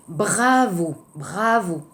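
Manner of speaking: Bravo with a throaty French R; soft French R. Shown as a demonstration. Teacher modelling the R in Bravo, gentle. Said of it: "Attention, le R".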